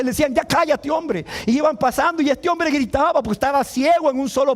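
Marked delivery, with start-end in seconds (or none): 0.3-1.2 higher-pitched rebuke, acted; scolding hush. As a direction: tell him off sharply. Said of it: "le decían, para que se callase".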